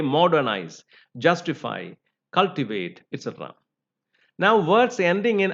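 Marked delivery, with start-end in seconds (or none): 0.0-3.0 "modernize, justify, cultivate" stressed on MOD-, JUS-, CUL-; stress on first syllable. Shown as a demonstration. Teacher giving similar examples, stress third from the end. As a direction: hit each opening syllable in "modernize", "justify", "cultivate", then fall.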